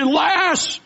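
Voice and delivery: hammed-up fearful lament of a doomed king; king of Israel crying out in hammed-up dread; mock despair. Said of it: "he said".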